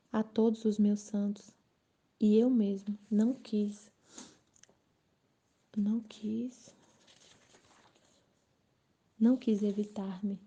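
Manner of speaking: slow, deliberate reading aloud; devotional reading. Acted. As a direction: read the sacred text slowly, with pauses. Reads the devotional text aloud. (leitura devocional pausada)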